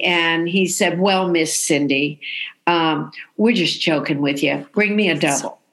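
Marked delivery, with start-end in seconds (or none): 1.0-5.6 imitating gentle reassurance. Morrison tells tearful waitress it was a joke, gently reassuring. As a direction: let them off the hook kindly.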